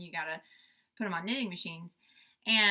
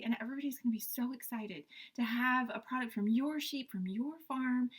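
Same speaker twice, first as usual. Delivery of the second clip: put-on sweet young saleswoman; 3 semitones higher, 3 dB quieter than usual. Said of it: "She was very young sounding".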